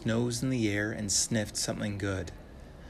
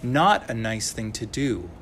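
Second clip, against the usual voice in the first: a firm call, louder, cutting in; yelled; 5 dB louder than usual. Acted. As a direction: stop the bear with a sudden loud call. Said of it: "a voice yelled".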